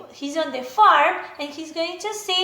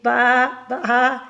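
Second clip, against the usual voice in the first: mock baa; 5 semitones lower, 3 dB louder than usual. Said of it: "It must be a sheep".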